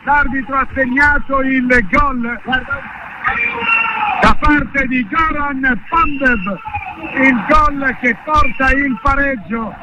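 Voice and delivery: high, elated goal recap; breathless italian goal commentary. Real, not acted. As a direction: still buzzing after the goal. Goal celebration continues.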